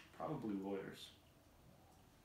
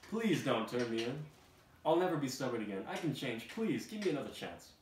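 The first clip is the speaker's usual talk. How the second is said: loud, higher, pleading donkey voice; Donkey pleading with the guards; begging Donkey; 5 semitones higher, 8 dB louder than usual. Acted. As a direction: beg desperately for mercy. Donkey begging not to be sold.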